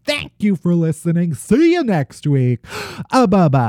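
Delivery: lively announcer-style credits read over music; punchy, playful sign-off with swooping emphasis; podcast outro read. Real, not acted. Reads the show outro.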